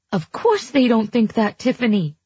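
high, unconvincing reassurance; shrill and unconvincing. Acted. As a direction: reassure without believing it. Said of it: "her voice shrill and unconvincing".

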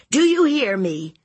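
high, loud falling demand; stern aunt. Acted. Aunt ordering nephew to heed her, stern. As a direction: demand his attention firmly.

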